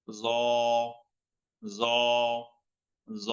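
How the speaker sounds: জ heavy, tongue at teeth, no vowel; thick tha. Shown as a demonstration. Teacher drills Arabic letter, thick জ. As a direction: fill the mouth on জ. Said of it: "আকার ছাড়া মোটা হবে".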